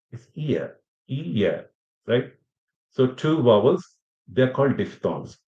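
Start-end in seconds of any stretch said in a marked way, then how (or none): 1.1-1.7 "ear" drawn as a two-vowel glide; diphthong demo. Shown as a demonstration. Teacher showing learners a diphthong, demonstrated "ear". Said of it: "when you use two vowels together".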